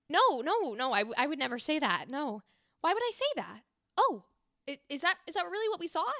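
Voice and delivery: a hint of a fluttery high lady protesting; dainty woman. Shown as a demonstration. GM voicing a dainty woman NPC, mildly high and flustered. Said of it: "a higher pitched, softer tone, daintier woman".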